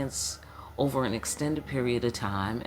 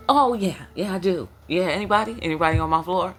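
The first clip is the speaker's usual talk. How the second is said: higher, louder spirit voice cracking into laughs; ancestor voice; 4 semitones higher, 6 dB louder, faster than usual. Acted. Ancestors answering the host again, high and laughing.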